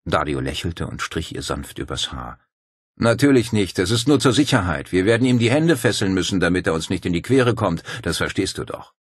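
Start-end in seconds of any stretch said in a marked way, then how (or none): 3.0-8.9 Dario's voice. Acted. Dario reassures his sister.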